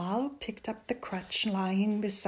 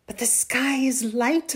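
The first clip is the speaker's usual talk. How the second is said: put-on raised, higher voice of an arguing boy; 5 semitones higher, 7 dB louder than usual. A narrator's reading. Boy counters his mother's reason, arguing. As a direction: argue back at mother. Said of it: "Amal argued".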